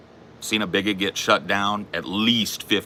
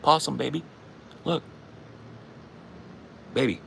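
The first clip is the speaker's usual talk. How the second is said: high sing-song call to a pet; high cooing pet call; 9 semitones higher, 5 dB quieter than usual. Real, not acted. Calling to pet possum.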